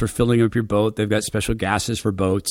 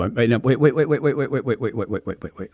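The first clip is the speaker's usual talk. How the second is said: stopping himself; faster than usual. Real, not acted. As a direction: halt the story, winding down. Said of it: "Let's restart".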